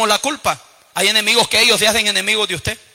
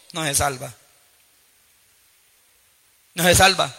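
hushed verdict; 7 semitones lower, 5 dB quieter than usual. Real, not acted. Solemn verdict after a raised build-up.

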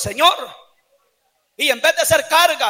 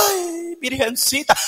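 mock weepy plea; slower than usual. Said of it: "van a ir llorando".

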